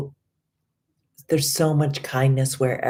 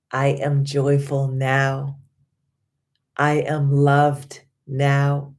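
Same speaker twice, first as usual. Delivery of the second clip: affirmation recital. Acted. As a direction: speak each affirmation like a promise to yourself.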